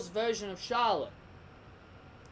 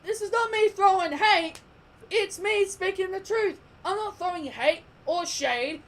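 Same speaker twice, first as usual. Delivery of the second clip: heated insistence; 9 semitones higher, 5 dB louder than usual. Real, not acted. Heated rant defending opinion.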